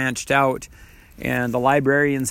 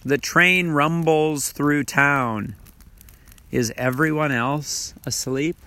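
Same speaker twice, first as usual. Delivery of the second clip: hushed sparse haiku. Shown as a demonstration. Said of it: "how about this one".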